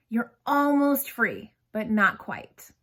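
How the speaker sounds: slow, drawn-out urging; urgent coaching. Shown as a demonstration. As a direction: lean on almost free, then hold back. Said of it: "You're on a knife's edge".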